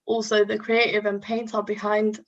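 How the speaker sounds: nervous, trembling voice; shaky voice. Real, not acted. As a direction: voice shaking with nerves. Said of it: "whoa, my voice is shaking".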